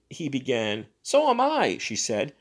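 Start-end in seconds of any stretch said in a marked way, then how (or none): 1.0-1.8 high, loud sharp comeback; sharp retort. Acted. Bellows to Thurkell, high sharp retort. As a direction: throw his words back.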